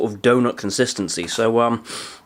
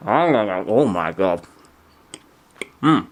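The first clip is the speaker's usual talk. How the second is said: surprised; 3 semitones lower, much slower than usual. Real, not acted. First bite of strong flavour.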